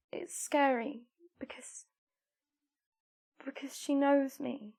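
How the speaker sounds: hushed. Real, not acted. Confessing fear.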